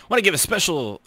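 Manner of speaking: usual speaking voice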